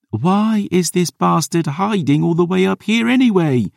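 high, strained shout into the wind. A narrator's reading. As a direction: yell it over the howling gale. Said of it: "Dior shouted".

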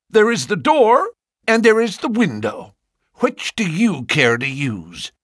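high, loud, threatening farmer; cried out. A narrator's reading. Ferrier ordering the suitors out, high and loud. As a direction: throw the suitors out with menace. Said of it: "cried Ferrier".

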